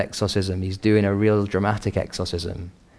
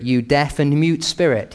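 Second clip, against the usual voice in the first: a touch higher, firm rebuke of the spirit; commanding rebuke; 5 semitones higher than usual. Retold or imitated. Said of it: "He labels the evil spirits".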